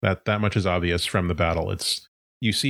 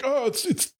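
high, flustered yelp; mock panic. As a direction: play someone panicking over a smoking gadget. Acts creatures struggling with smoking gadget.

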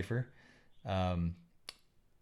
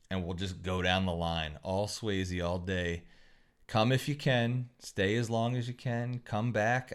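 wrestling promo; 2 semitones lower than usual. Pretend. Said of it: "I'll do my promo for Swayze night".

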